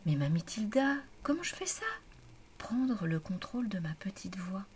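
high, eager burst of questions; carried-away Aimée. A narrator's reading. Aimée asks Mamie Tilda how to take control, carried away. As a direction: ask loudly and high, swept up by what was heard. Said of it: "demanda Aimée comme transportée par les paroles".

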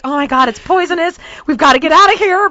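quick, mildly panicked retelling; hysterical. Retold or imitated. Woman spotting a spider in the canoe, mildly hysterical. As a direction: rattle it out in alarm. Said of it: "I'm hysterical".

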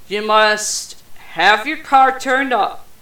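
words pushed out through a burp. Real, not acted. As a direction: talk through a soda burp. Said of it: "Soda burp".

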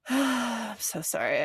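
slow, sighing apology, voice catching; getting emotional. Real, not acted. To viewers about the mother's loss, slow and tearful. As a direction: choke up a little as you apologize. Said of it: "getting emotional".

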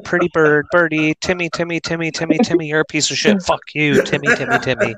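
high squawky bird chatter; parrot voice. Retold or imitated. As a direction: mimic a talking budgie. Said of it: "Pretty good mimickers".

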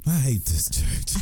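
slow, lightly voiced little boy. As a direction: quote the kid slowly. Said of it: "What that little boy say?".

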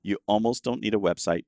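"almost" picked out as the key word; stress on ALMOST. Real, not acted. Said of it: "I'm gonna emphasize the word almost".

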